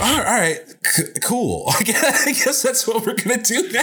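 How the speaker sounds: high, laughing, unimpressed reply; laughing mock crowd. Mocking the crowd's reaction to the speech, laughing high. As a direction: give a giggly, sarcastic "cool". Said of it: "It's like".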